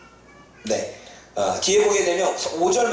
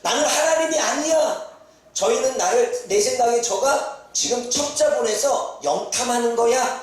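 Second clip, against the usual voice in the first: raised, protesting king, slowing down; higher, indignant retelling of the king's alarm; panicked king; 6 semitones higher than usual. Retold or imitated. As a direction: play the rattled king who suspects a trick. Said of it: "뭐 지냐면".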